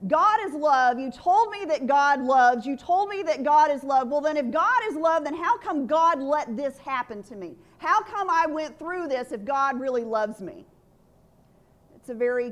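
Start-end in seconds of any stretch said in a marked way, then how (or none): 0.1-10.7 struggling with God. Retold or imitated. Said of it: "I really struggled with this whole".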